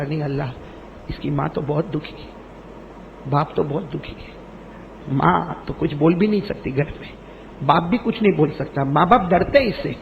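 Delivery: soft, grieving report to God; hushed angel's report. Acted. Angel softly telling God the parents are grieving, hushed.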